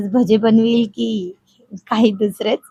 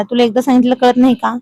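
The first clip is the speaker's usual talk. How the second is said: a bit irritated; 3 semitones higher than usual. Acted. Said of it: "तो जरा चिडून म्हणाला".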